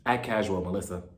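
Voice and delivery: low, hushed, furtive warning; under her breath. Retold or imitated. Tracy warns Melissa that Teresa is looking, hushed. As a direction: keep it secret from the person watching. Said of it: "whispering underneath her breath".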